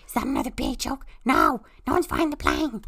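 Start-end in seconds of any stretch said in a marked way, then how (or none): 1.2-2.8 panicked no. Acted. Panic on the plane.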